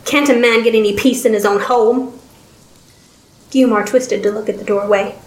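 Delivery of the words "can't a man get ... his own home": put-on lightly gravelled old man's grumble; mildly gravelly, irritated question. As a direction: complain like an annoyed old man. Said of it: "came a gravelly voice".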